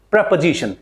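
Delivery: "Preposition" as preh-puh-ZI-shun; short first vowel and schwa middle in "Preposition"; correct pronunciation demo. Shown as a demonstration. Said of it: "second word is preposition".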